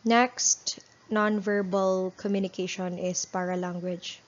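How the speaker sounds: flat, bored read-off of a slide; monotonous reading. Shown as a demonstration. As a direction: drone through it like a dull teacher. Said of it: "read my PowerPoint like this".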